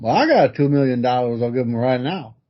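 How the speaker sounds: lightly put-on Southern accent; rough, half-sure take on a Southern accent; Southern accent impression. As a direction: attempt a mumbly Southern politician's accent. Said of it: "he's from the South in this accent".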